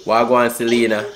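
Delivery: put-on Jamaican patois accent. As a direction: chat in a fake Jamaican accent. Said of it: "Stop that fake ass accent".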